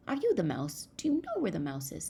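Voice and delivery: put-on storybook child. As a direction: quiz the fox with a hint of a child's voice. Child questions the fox.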